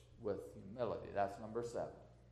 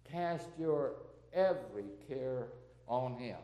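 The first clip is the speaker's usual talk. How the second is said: measured, emphatic verse recitation; hymn recited as preaching; 2 semitones higher, 4 dB louder than usual. Real, not acted. Preacher reciting a songwriter's words to congregation, measured hymn recitation. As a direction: declaim each phrase, then pause.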